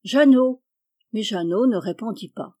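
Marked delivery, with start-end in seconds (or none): 0.0-0.6 raised, louder call. A narrator's reading. Jean searching round the house for his cousin, calling out. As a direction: call out for someone out of sight. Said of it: "Il appela".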